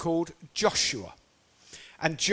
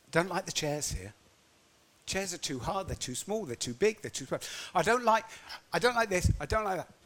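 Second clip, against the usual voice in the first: grumbling complaint; 4 dB quieter than usual. Acted. Congregation's imagined complaints.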